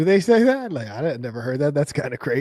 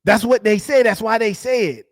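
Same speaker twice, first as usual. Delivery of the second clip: higher, sing-song parroting; mock bro repeating himself, higher; 8 semitones higher, 4 dB louder than usual. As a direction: echo him back like a broken record. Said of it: "could you repeat that one more time?".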